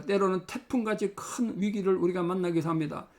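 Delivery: steady prayer voice; closing prayer. Acted. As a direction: pray earnestly over the congregation.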